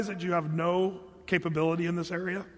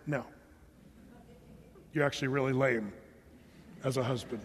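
mock Hannah's unsaid reply; 7 semitones lower, 7 dB quieter than usual. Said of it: "Hannah's so nice to not say".

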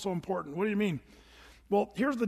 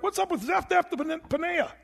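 much higher, baffled voice; puzzled Egyptian; 9 semitones higher than usual. Retold or imitated. Egyptian servants wondering about Joseph, high puzzled voice. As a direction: sound confused by the name. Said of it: "They're like".

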